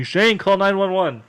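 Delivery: high, slow urgent call up the stairs; yelled order. Retold or imitated. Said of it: "He yells at me".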